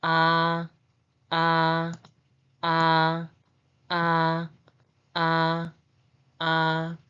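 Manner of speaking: "Ah" held long on a level pitch; separate, drawn-out "ah" for learners to copy; vowel demo. Shown as a demonstration. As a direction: say "ah" as a steady open vowel, evenly repeated. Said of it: "The pronunciation is".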